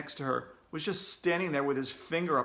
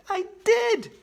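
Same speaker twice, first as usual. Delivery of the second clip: whispered; 7 dB louder than usual. A narrator's reading. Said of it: "she whispered back".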